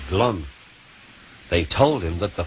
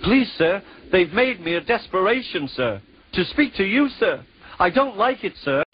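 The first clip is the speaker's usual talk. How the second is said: nervous; 11 semitones higher than usual. Acted. Percy nervously addresses Fat Controller.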